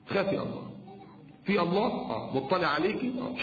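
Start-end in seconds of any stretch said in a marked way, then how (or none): 0.1-0.7 hushed warning; whispered. Shown as a demonstration. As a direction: whisper خافي الله with no voice. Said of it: "يعني خافي الله".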